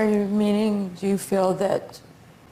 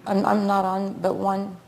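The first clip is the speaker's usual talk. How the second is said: slurred, sluggish speech; words running together, slurred; slurring words; 3 semitones lower than usual. Real, not acted. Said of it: "you're slurring your words".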